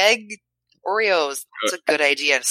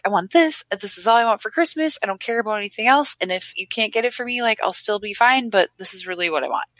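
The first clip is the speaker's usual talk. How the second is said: put-on high, eager little girl begging for a present; pleading kid voice; 6 semitones higher than usual. Young daughter begging her parents, high and eager. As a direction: beg like a kid wanting the one Christmas toy.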